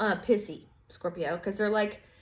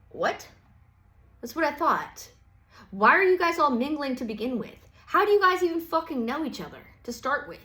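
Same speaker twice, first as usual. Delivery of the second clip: higher, louder indignant questioning; indignant demand; 5 semitones higher, 4 dB louder than usual. Retold or imitated. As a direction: call them out, rising indignation. Scorpio confronting the ants.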